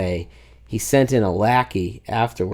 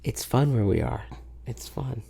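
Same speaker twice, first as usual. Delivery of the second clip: imitating lackey; 2 semitones lower, 11 dB quieter than usual. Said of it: "he was like".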